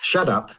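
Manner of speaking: "Shut up" said as "shaddup"; "Shut up" turned into shaddap; slangy pronunciation. Shown as a demonstration. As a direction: say "Shut up" as one word with a D. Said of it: "S H A double D U P".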